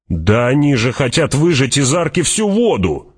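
high, rising indignant protest; indignant cry. A narrator's reading. Man with a gun protesting, indignant cry. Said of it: "возмущённо крикнул".

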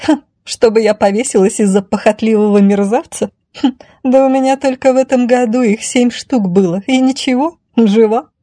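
high, scornful lady; haughty lady brushing off the idea; contemptuous. Acted. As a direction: snort with mild disdain. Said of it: "Дама презрительно фыркнула".

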